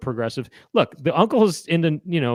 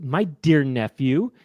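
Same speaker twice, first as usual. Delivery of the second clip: slow, condescending uncle voice; 4 semitones higher, slower than usual. Retold or imitated. A mild imitation of the uncle scolding his nephew, condescending. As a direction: talk down to the kid, drawn out. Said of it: "coming at the kid a little bit".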